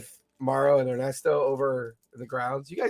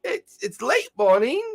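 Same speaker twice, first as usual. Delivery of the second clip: put-on old man voice; 11 semitones higher, 4 dB louder than usual. Grumbles answers, slow high.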